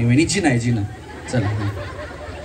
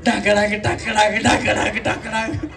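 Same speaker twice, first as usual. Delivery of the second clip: slow, even drum imitation; mouthed drumbeat; slower than usual. Shown as a demonstration. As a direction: tap out a beat with the voice. Host vocally imitates drum beats.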